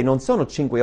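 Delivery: ordinary talk, nothing marked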